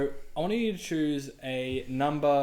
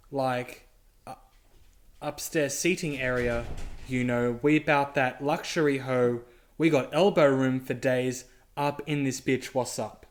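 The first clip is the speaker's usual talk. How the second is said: deadpan reading; slower than usual. Acted. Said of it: "reading that in a very normal voice".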